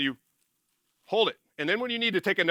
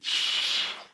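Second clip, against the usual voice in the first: demo long exhale. Shown as a demonstration. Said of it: "blow it all back out".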